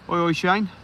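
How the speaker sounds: high, loud sing-song oi oi; cheery greeting call. Real, not acted. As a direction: call out to welcome a regular. Greeting a viewer on live stream.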